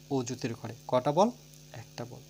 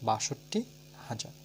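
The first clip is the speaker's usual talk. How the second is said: put-on spelling aloud for children. Shown as a demonstration. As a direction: clear dictation of each letter for pupils. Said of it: "আমার উচ্চারণটা শুনে নাও". (শিশুদের জন্য স্পষ্ট করে বানান বলা)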